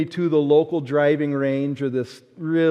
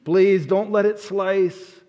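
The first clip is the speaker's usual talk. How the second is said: slow, higher, begging; pleading prayer; 3 semitones higher, slower than usual. Retold or imitated. Boy pleading over his drive, slow and higher. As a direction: beg the ball not to slice. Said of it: "and I said".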